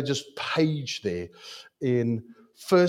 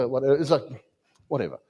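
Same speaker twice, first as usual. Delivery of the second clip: ordinary delivery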